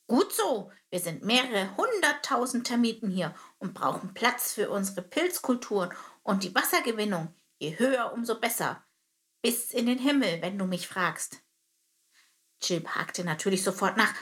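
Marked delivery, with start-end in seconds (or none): 0.1-11.4 friendlier captain. Acted. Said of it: "Theras Stimme wurde sofort freundlicher".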